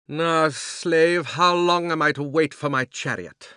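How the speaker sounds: loud, commanding queen's voice; thundering witch. A narrator's reading. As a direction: boom it out like an imperious witch. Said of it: "thundered the witch".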